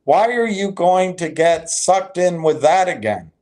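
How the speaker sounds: high, sing-song mock of an eager hype chatter; lightly mocking rival's excited chat message. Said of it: "He's saying".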